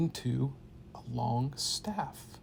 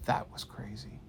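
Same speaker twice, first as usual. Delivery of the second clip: softer, breathy unvoiced remark; breathless whisper; 4 semitones lower, 6 dB quieter than usual. Kid to wizard after battle, spent whisper. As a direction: say it spent and hushed.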